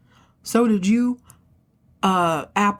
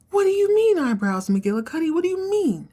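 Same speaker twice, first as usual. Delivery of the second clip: shocked Fallon; 11 semitones higher than usual. Retold or imitated. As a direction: jump way up in shock.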